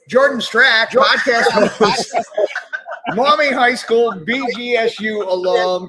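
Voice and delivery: big, loud, high hype-man introduction; hyped announcer intro. Acted. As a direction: pump up the guest's arrival.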